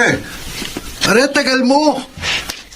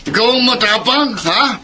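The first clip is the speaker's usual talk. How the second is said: put-on blackout drunk. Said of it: "Lasing na lasing ka na naman".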